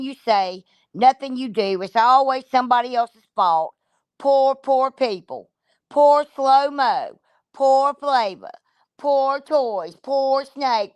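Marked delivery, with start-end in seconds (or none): 4.2-10.9 slow, drawn-out mock sympathy for each name; sarcastic pity. Real, not acted. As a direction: stretch out every poor as a sneer.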